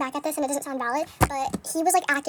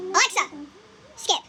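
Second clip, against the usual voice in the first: louder call; 2 semitones higher, 3 dB louder than usual. Real, not acted.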